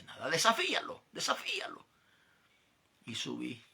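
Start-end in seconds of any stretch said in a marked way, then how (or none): 0.3-1.0 Desafíalo said higher and louder as a dare; mock tempter's loud dare; taunting dare. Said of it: "me decía aquella voz". 1.1-1.9 desafíalo whispered much higher, like a hiss in the ear; sly whispered temptation; whispered dare. Retold or imitated. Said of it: "me decía aquella voz".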